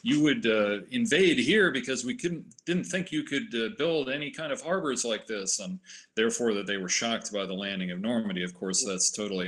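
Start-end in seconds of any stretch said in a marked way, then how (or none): 0.0-5.6 mock German general, quick and a bit raised; a half-hearted German officer accent, sped up; lightly put-on German general voice; fake German general accent. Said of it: "fake German general accent".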